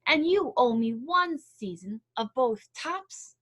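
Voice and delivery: loud, slow angry demand; growling bear. Acted. Bear demanding his due from Hare, loud slow growl. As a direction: lean on every word like a threat. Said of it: "Bear growled".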